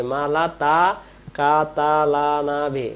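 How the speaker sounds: "তাকাতা" with light t, k and open a; common mispronunciation. Shown as a demonstration. Teacher shows common slip, "তাকাতা" light and open. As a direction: read "তাকাতা" with no heavy letters. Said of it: "এই যে এইটা ভুল করি".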